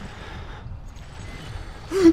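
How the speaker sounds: sharp frightened gasp; a startled intake of breath. Real, not acted. Player startled by a noise, sharp gasp.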